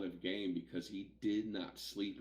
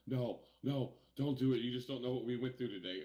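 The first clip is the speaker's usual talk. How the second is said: imitating Sean begging, a bit higher and louder; panicked pleading; 5 semitones higher, 4 dB louder than usual. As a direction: mimic a worried friend pleading. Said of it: "And Sean's like".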